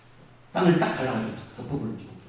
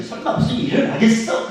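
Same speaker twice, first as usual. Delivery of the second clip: mocking scoff; 9 semitones higher, 6 dB louder than usual. Mocking Israelites' complacency.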